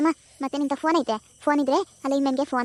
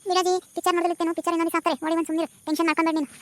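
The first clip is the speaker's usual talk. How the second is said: higher, quick dismissive worker; impatient lineman; 4 semitones higher, faster than usual. Acted. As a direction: hurry the old woman off. Lineman brushes grandma off.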